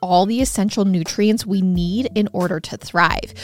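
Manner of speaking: upbeat sponsor read over music. Acted. Host reads sponsor ad to listeners, bright promo voice. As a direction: sell the product brightly to listeners.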